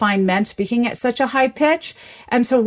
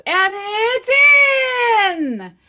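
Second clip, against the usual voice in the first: very high, stretched-out goal call; elongated announcer vowels; 13 semitones higher, much slower than usual. Shown as a demonstration. Linguist mimicking an announcer once the goal comes, high elongated vowels. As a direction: hold each vowel long like a commentator. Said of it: "they'll often elongate the vowels".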